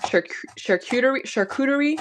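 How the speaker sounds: anglicized "charcuterie", stumbling on the first attempt; English pronunciation. Shown as a demonstration. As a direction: try "charcuterie" the English way, voice lifted. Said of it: "French, but are said, like, in English".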